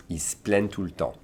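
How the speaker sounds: low, soft "Ils se plaignent" as "iss-plenn"; elided French, demonstrated. Shown as a demonstration. Teacher's last repeat for learners, soft elided French. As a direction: end "plaignent" almost on a plain n, quietly. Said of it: "Almost like an N".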